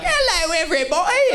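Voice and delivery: very high, silly British greeting; cartoonishly high-pitched pretend British; fake British accent. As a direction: put on a squeaky mock British accent. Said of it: "pretended to be British all night long".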